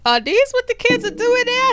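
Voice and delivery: high, mock-scandalized quote; shocked character quote. Retelling Megan Good's reaction to her date, mock horrified and high. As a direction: play her horrified disbelief. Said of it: "And she was like".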